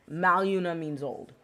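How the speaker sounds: Mal Yuna said slowly, leaning on "Mal"; slow teaching demo hitting "Mal" in "Mal Yuna"; stress on mal. Shown as a demonstration. Streamer teaching a word to chat, stressing "Mal". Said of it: "add the word mal to something and it means the opposite".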